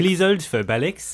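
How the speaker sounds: high French switchboard voice; mock French accent. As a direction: put a caller on hold in silly French tones. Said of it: "bits of French got added in".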